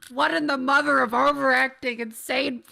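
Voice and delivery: high, loud, baffled outburst; loud incredulity. Real, not acted. Streamer reacting to insane overacting, loud and incredulous. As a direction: exclaim in appalled disbelief.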